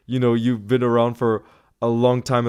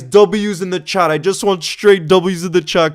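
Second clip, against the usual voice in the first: loud; 5 semitones higher, 5 dB louder than usual. Real, not acted. Calling for chat hype.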